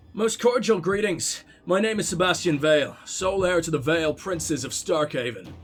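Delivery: lightly voiced Irish prince reading a letter; light Irish accent. Gamer reads Sebastian's letter to the Inquisition in a light Irish accent. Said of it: "I've got to do a little Irish accent".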